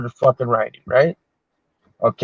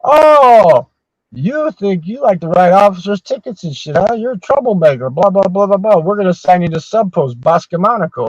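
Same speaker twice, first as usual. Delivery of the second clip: higher, sneering taunt; mocking officers; 5 semitones higher than usual. Italy officers mocking the MP who tickets officers, higher and sneering. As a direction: taunt the troublemaker. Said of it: "officers over there saying".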